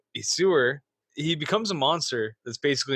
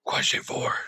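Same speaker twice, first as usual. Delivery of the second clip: whispering. Acted. Quiz host announcing question.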